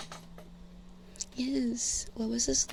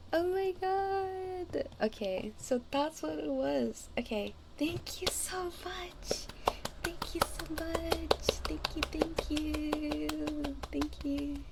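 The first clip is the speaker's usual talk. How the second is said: overjoyed high-pitched thanks; bursting with relief, voice up high; loud; 6 semitones higher, 3 dB quieter, slower than usual. Real, not acted. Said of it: "Sorry, I'm being loud".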